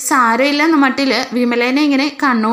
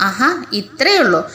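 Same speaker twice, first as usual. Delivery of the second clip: laughing. Retold or imitated. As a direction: laugh through the words. Revathi brushing off the fuss. (ചിരിച്ചുകൊണ്ട് പറയുന്നു)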